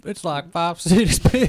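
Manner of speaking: exaggerated high read-aloud voice; put-on reading voice. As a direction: read it out in a drawn-out mock voice. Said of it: "my bad for reading like that".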